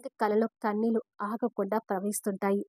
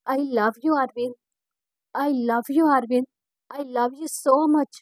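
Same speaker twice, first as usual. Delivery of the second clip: joyful shouting; 2 semitones higher, 5 dB louder, slower than usual. Acted. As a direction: shout it to him while running. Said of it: "అని అరుస్తూ".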